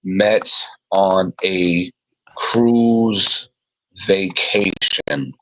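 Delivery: slow, halting word-by-word delivery; spaced-out words, composing as you go; slow dictation. Real, not acted. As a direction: say it as you write it down. Writing down the story while speaking.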